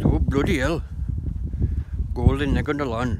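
a hint of an Asian accent; Asian guy accent. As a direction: lightly imitate an Asian man's accent, astonished. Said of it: "Asian guy".

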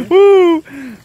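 loud, high whoop; excited cheer. Real, not acted. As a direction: let out a big happy woo. Cheering after the bite.

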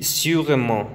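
slow "sûrement" rounded U; French sûrement. Shown as a demonstration. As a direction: draw out "sûrement".

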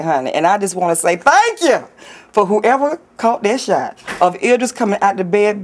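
ordinary talk

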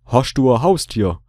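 Swabian, with "Hast" as "Hoscht"; Swabian accent. Shown as a demonstration. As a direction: ask it again in Swabian dialect, "du ein" run together. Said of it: "ich frag ihn das jetzt nochmal auf Schwäbisch".

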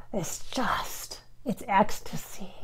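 soft, half-whispered wonder; hushed awe. Real, not acted. Telling of an ecstatic connection, hushed awe. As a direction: drop to a soft, reverent near-whisper. Awed account of intimate love.

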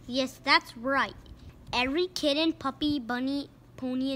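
brisk TV anchor read; mock news report. Narrator reading a news report to the listener. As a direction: announce it like breaking news. News-style opening of story.

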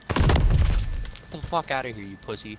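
loud, slow angry yell; raging gamer. Real, not acted. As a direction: roar it at the camping opponent. Trash talk in a video game.

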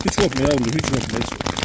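tender reassurance trailing to a hush; fading soothing hush. Real, not acted. Shepherd soothes the trembling kid, fading to a hush.

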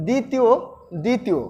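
দ্বিতীয় said "ditiyo", silent ব; careful "di-ti-yo", no w or b sound; standard pronunciation. Shown as a demonstration. Teacher telling students this is our pronunciation, দ্বিতীয় as "ditiyo". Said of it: "এটা কিন্তু আমাদের উচ্চারণ".

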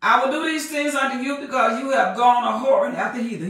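measured preaching cadence; scripture reading. Acted. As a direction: read it like the Word itself. Preacher reads scripture aloud.

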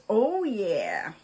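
breathy whispered oh yeah; whispering. Real, not acted. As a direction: whisper it in delight. Admiring stickers, whispered.

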